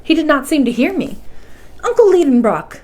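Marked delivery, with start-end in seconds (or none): 1.8-2.8 calling out louder and higher; a nephew calling loudly to his distracted uncle; raised voice. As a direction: raise the voice to make him hear. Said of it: "I said, raising my voice".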